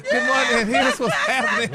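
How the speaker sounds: hyped-up shout; shouted opener. Real, not acted. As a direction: yell the hello to the listeners. Shouted show opener, then laughs.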